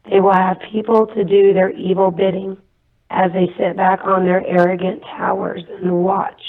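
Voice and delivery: solemn, measured proclamation in short phrases; evenly paced prophetic message, like a recitation; prophecy delivery. Real, not acted. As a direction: deliver a divine warning, pausing between phrases.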